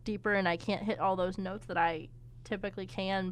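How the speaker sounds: talking through a swollen throat; swollen tonsils voice. Real, not acted. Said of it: "so my voice is, like, deeper".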